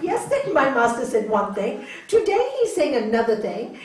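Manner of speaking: baffled disciple, voice lifted; totally confused. Acted. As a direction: protest the contradiction in acted confusion. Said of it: "totally confused".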